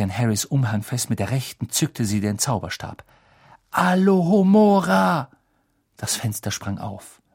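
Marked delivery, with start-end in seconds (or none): 3.7-5.3 high, slow, ringing incantation; spell cast aloud. Acted. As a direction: call out the spell. Casting a spell. (laut gesprochener Zauberspruch)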